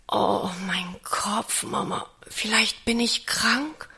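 put-on slow, pained sick-child whisper; weak whisper. A narrator's reading. Boy pretending to be sick whispers to Mama, weak and pained. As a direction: breathe it out like a feverish boy faking illness. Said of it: "Anton verdreht die Augen und flüstert".

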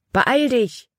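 high urgent call. A narrator's reading. Caleb urging Libby on the log, high urgent call. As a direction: hurry her along across the log. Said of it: "rief Caleb".

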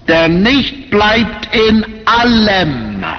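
allem stretched out slowly; slow down and lean hard on allem; drawn-out, emphatic allem; stress on allem. Real, not acted. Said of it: "diese Betonung auf alles".

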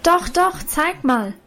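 put-on high, eager girl's call. A narrator's reading. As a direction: urge her to show it, bright and insistent. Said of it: "rief nun aber auch schon Lina".

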